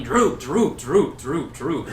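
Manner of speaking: a hint of a chanting goblin yell; mock goblin yell. Retelling the goblin who kept yelling, mildly mock. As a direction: call it out like a small goblin. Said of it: "he kept yelling".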